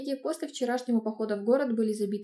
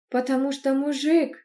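higher, louder annoyed snarl; angry growl; 4 semitones higher, 6 dB louder than usual. Acted. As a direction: snap it out in vexation. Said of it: "рыкнула я злобно и с досадой". (злобный рык с досадой)

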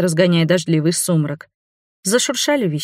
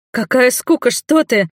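loud, higher, enraged retort; furious; 6 semitones higher, 3 dB louder than usual. A narrator's reading. Angry heroine shouting at her fiancé Cliff. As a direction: snap back in a rage at the fiancé. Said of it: "взбесилась я".

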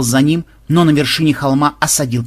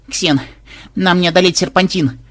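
shout; 5 semitones higher than usual. A narrator's reading. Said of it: "крикнула внучка".

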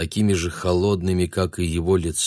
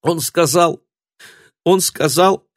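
gusty whisper; 7 semitones higher than usual. A narrator's reading. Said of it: "порывистым шёпотом".

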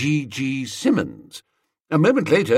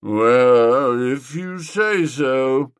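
doubtful; 5 dB louder, much slower than usual. A narrator's reading. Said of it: "said Gussie doubtfully".

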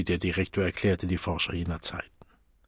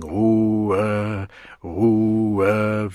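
usual speaking voice

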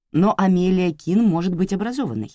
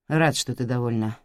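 flat robotic monotone; 4 semitones lower than usual. Acted. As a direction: speak like a robot. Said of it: "сказал мистер Оливер голосом робота".

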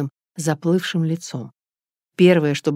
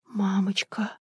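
much softer, hushed cry; soft gasp; 3 semitones higher, 8 dB quieter, much slower than usual. Acted. Natasha looking at the woman's face, hushed gasp. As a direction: let it slip out under breath. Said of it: "тихо охнула Наташа".

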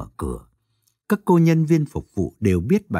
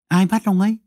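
sudden shocked question; stunned blurt; 8 semitones higher than usual. A narrator's reading. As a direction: blurt it out before thinking. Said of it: "Tấn kinh ngạc, buột miệng hỏi".

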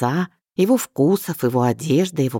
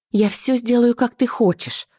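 high, pleading promise; beg, voice pitched high; wife begging her husband, high and wailing; wailing plea; 9 semitones higher than usual. A narrator's reading. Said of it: "причитала в голос".

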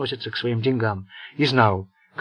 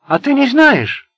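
much higher, louder, slow sullen retort; gloomy grumble; 13 semitones higher, 10 dB louder, slower than usual. A narrator's reading. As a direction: grouse it sourly. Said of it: "угрюмо проворчал Тарин".

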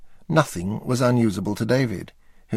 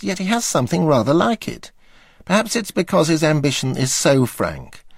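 plain reading voice

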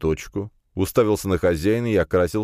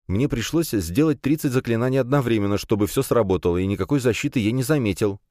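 lightly voiced youth explaining himself, a little higher; slightly higher, halting self-justification; nervous young man; 6 semitones higher than usual. (слегка взволнованный парень оправдывается)

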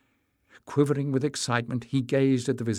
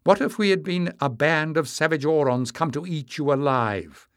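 mock fierce; 5 semitones higher, 5 dB louder than usual. A narrator's reading. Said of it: "She sounded very fierce".

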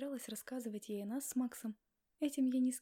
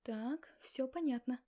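slow, cold cutoff; icy; slower than usual. Acted. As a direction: freeze him out slowly. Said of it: "отрезала я ледяным голосом".

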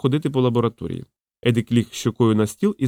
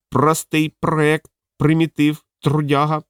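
very slow raised parrot squawk; slow, higher parrot voice; 4 semitones higher, slower than usual. Acted. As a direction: drag the words out like a parrot. Parrot describes Privalov.

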